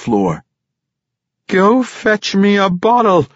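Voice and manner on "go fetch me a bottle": much higher, louder bellowed order; drunken yell. Acted. Drunk father yelling at his son for a bottle. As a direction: bark the order at the boy. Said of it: "Ivor Breen yelled".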